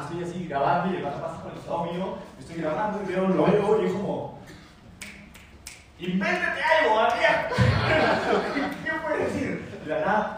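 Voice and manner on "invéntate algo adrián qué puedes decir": inner pep talk. Retold or imitated. Inner voice urging himself.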